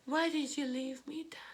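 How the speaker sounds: a broken whisper to a dead father; barely-there whispered "Why did you leave me, Dad?"; the son whispering his question to his late dad; whispered plea. Real, not acted.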